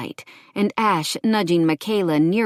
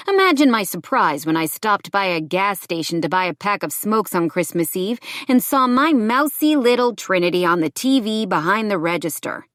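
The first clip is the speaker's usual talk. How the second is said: lightly voiced taunting ex, pitched up; menacing ex-boyfriend; 3 semitones higher, 4 dB louder than usual. Ex-boyfriend tells how he found her, lightly voiced menace.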